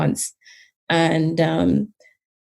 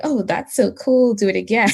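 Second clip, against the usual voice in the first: mock impressed reaction; 3 semitones higher than usual. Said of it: "the way people would respond, like".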